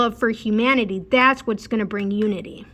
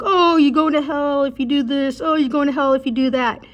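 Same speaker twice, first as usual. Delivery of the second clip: higher, mildly raised mock scolding; mock preacher yelling; 4 semitones higher than usual. Street preacher condemning passers-by, mild mock yell. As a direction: imitate a toxic street preacher, only half yelling. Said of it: "Would they be yelling and screaming".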